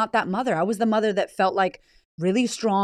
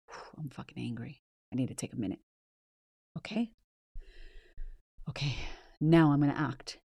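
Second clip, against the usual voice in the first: much softer and lower, calming herself down; hushed inner voice; 6 semitones lower, 9 dB quieter than usual. Retold or imitated. Parent catching herself before yelling, hushed and low. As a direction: talk yourself down under your breath. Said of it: "a moment right before the yelling that goes".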